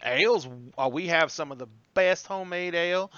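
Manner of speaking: lightly voiced Southern waitress; Southern waitress accent. Waitress taking drink orders, light Southern accent. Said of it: "You throw on that accent".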